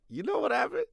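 high, rising teaser; a bit of a mock hype; excited tease. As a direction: tease the big reveal. Teasing build to punchline.

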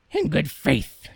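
a hint of the scheming mother; lightly voiced greedy mother; mother's voice. Mother voiced in fairy tale.

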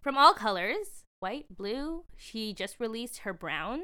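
light upbeat ad-read voice; commercial voice. Acted. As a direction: pitch the products like a commercial. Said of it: "commercial voice here".

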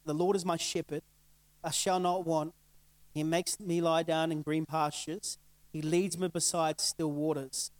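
slow, measured psalm recitation; scripture reading. Acted. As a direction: read the psalm slowly and gently.

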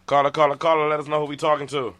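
loud, bright radio host greeting; radio host hype. Acted. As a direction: greet the caller like a DJ.

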